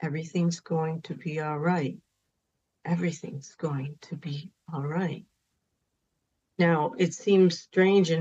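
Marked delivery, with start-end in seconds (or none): 0.0-2.0 put-on soft, soothing reassurance to a grieving child; gentle soothing repeat. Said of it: "said over and over again". 2.8-5.2 fully whispered reassurance, very soft; hushed whisper comforting a child; whispered soothing. Retold or imitated. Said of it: "said over and over again".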